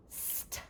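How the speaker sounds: st whispered as a bare sound. Shown as a demonstration. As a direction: breathe out st with no voice. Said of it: "The beginning sound".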